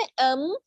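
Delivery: M hummed through closed lips. Shown as a demonstration. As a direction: close the lips and let M resonate. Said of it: "lips को close करके पढ़े". (होंठ बंद करके गूंजता "M")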